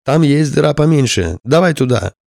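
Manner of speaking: urging shout. Acted. Rescued firefighter urges pilot.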